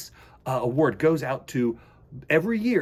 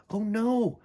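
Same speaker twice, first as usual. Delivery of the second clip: gentle and dreamy; 4 semitones higher than usual. Acted. Frederick explains gently.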